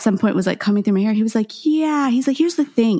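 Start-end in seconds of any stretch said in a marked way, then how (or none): 1.6-3.0 imitating the stylist. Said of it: "he says this out loud in front of everyone".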